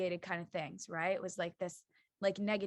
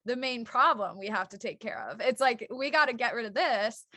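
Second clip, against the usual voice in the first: firm decision voice; 5 dB louder than usual. Retold or imitated. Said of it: "it was like".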